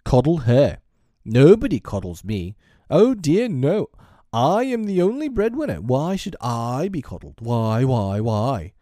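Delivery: loud, high, wounded tantrum; indignant father shouting his grievance. A narrator's reading. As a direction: rant in self-pity, pitch leaping up. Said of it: "he shouted".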